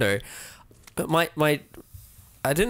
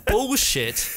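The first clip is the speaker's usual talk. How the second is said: high, quick, laughing complaint; laughing in disbelief, pitched up; real amused outrage; 6 semitones higher than usual. Real, not acted. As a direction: protest through laughter. Game interrupts, player cracks up.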